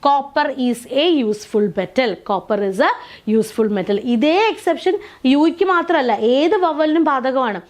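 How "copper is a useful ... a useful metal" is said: slow, deliberate reading of Copper is a useful metal; slow model sentence. Shown as a demonstration. Teacher reading the answer sentence to students slowly. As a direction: read it out slowly, word by word, for the class. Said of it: "അങ്ങനെയുള്ള കേസസിൽ A ആണ് വരിക".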